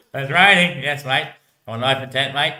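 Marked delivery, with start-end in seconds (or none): 0.1-0.8 laughing. Real, not acted. Laughing remark at rain.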